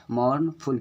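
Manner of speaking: mournful with a long, drawn-out "mourn"; teacher's slow scansion of mournful, first beat held; stressed first syllable. Shown as a demonstration. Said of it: "थोड़ा ज़्यादा time दे के पढ़ रहे हैं".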